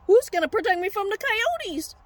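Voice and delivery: high mock-panicked sheep; freaking out. Sheep without a shepherd fears coyotes, high mock panic. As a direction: cry it out in hammed-up worry. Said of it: "they start freaking out".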